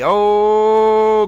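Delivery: high drawn-out announcer oh; 1940s announcer exclamation. Acted. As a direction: sing out the oh like a newsreel. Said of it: "I'm a nineteen forties news announcer".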